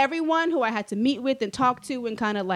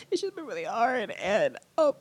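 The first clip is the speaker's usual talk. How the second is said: put-on pleading. Begging her boss to let her graduate, mild put-on pleading. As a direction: act pitiful and beg a little. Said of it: "I had to put on a whole thing".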